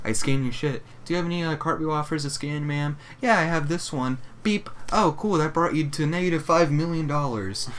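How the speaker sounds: sing-song store clerk; perky cashier voice. Retold or imitated. Acting cashier and customer exchange.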